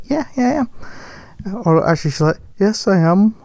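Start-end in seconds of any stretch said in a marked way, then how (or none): 0.0-0.7 higher, softly voiced actress; voiced actress reply. Actress answering a fan in the shop, higher voice. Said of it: "And she's like". 2.6-3.3 badly faked Wolverhampton accent; attempted Wolverhampton accent. Actress answering a fan, shaky attempt at Wolverhampton accent. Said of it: "trying to do an impression of her".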